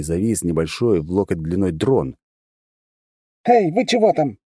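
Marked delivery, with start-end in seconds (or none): 3.5-4.4 much higher, irritated call; displeased speaker voice. Acted. The drone scolding the girls, displeased call through speakers. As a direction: complain through a small speaker. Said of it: "раздался из него недовольный голос, слегка искажённый динамиками".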